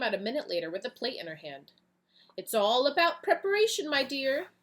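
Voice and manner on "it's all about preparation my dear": high, loud motherly assurance; kindly farmer. Acted. Miss Green reassuring Eagle Boy, high and kind. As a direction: reassure him like a fond aunt. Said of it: "she said to Eagle Boy".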